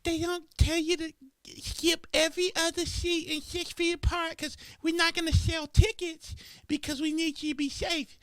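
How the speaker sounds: high, sing-song pretend announcement; lilting mock-polite announcer; mock airline announcer.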